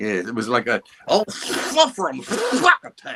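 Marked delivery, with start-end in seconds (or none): 1.1-3.2 lisping cartoon cat voice, pitched higher. Imitating a cartoon character after describing his voice: Sylvester voice. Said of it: "That's a really good impression".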